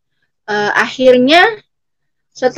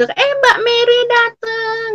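imitating a delighted host, high drawn-out welcome; happy greeting; 11 semitones higher, slower than usual. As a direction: call it out high and slow, pleased at a visitor. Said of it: "seneng gitu". (sapaan senang, menirukan tuan rumah)

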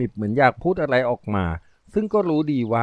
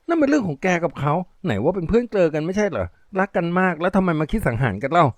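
scornful Riam; 6 semitones higher than usual. Acted. Riam scolds junkie.

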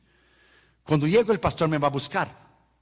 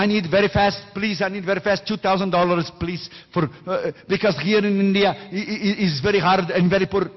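imitating an Indian pastor's English, pleading; a light Indian accent on a hurried request. Preacher mimics the Indian pastor asking for money, light Indian English accent. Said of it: "Así hablan ellos en India".

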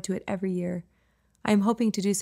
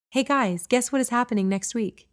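higher, louder, building up a surprise; playful teaser; 4 semitones higher, 3 dB louder than usual. Acted. Mom teasing her sons about next week, playfully higher. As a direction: tease the kids with a secret.

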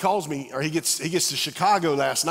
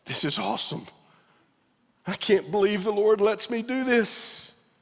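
mock delight; 7 semitones higher than usual. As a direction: gush about a great job day. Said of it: "some days it's like".

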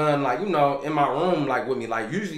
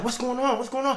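higher, anxious question repeated; girlfriend, startled; 9 semitones higher than usual. Retold or imitated. Girlfriend woken at night asks, lightly voiced higher. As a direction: voice the half-woken girlfriend asking. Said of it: "she like".

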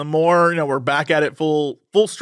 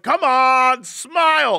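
coaxing dad; 7 semitones higher, much slower than usual. Retold or imitated. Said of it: "my dad was like".

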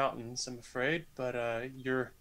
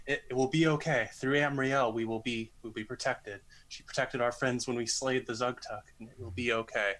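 reassuring prayer. Acted. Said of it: "in what I hope is a reassuring way".

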